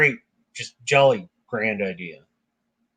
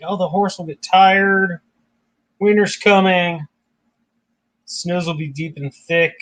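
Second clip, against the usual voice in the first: slow, higher, sing-along reassuring list; dismissive reassurance; 4 semitones higher than usual. Retold or imitated. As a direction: wave the worry away, drawing each phrase out. Voicing Loki's repeated reassurances.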